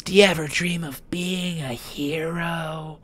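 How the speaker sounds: high, loud, slow heroic anime voice; earnest determined anime hero; anime protagonist voice. Shown as a demonstration. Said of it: "Anime protagonist voice".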